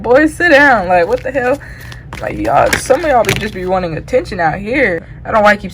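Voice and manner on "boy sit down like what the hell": mock scolding. Spirit scolds people wanting attention.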